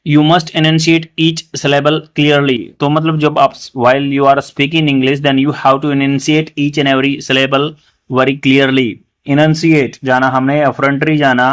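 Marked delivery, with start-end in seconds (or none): 0.1-2.6 slow example sentence. Shown as a demonstration. Teacher reading the example sentence, slow and deliberate. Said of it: "example sentence कैसे?". 3.8-8.9 slow example sentence. Shown as a demonstration. Teacher reading the example sentence, slow and deliberate. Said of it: "example sentence कैसे?".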